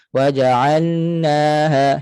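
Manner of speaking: WAJA'ALNAHA slowly chanted as waja'annaha; lost lam. Shown as a demonstration. Teacher shows idgham mistake, lam lost. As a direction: swallow the L into a long N in waja'alnaha. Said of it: "hilang bunyi lam".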